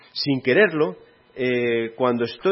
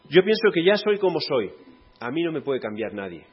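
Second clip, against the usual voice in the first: stubborn objector; 3 semitones higher, 4 dB louder than usual. Acted. Voices a stubborn listener.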